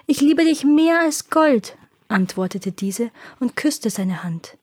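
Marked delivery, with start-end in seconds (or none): 0.1-1.8 slow, higher-pitched, gushing daughter; sweetly overdone declaration of love. A narrator's reading. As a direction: draw out the devotion in a higher voice. Eldest daughter flatters her father.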